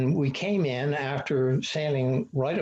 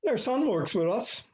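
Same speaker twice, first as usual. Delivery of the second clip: surprised reveal; 10 semitones higher than usual. Retold or imitated. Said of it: "he says".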